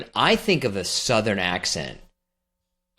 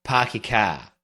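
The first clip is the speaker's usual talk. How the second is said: learner trying out Boston dropped R's; careful non-rhotic Boston attempt; Boston accent; slower than usual. Shown as a demonstration. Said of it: "That's really good".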